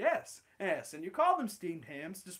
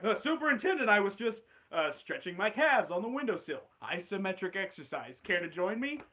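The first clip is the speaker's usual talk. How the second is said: flustered Skinner. Acted. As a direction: caught out, stammer an excuse. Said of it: "Steamed Ham script".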